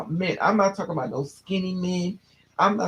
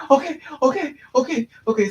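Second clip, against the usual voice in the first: higher, hurried nervous okays; a touch of panic, imitated; imitating scared stepbrother; 8 semitones higher, 4 dB louder, faster than usual. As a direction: mimic a frightened kid quickly agreeing. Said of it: "So he's scared".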